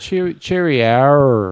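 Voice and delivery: loud, stretched cheery R with an "-ar" ending; Australian R ending. Shown as a demonstration. Playing with Australian R's, cheery R as "cheery-arr". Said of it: "the R's are more of".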